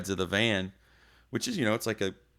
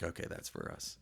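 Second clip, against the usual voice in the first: low resigned; 15 dB quieter than usual. Retold or imitated. Resigned realization.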